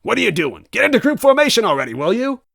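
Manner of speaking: high, loud, fast frustrated order; angry robot. Acted. Robot villain ordering his legs, angry. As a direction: snap the command, out of patience.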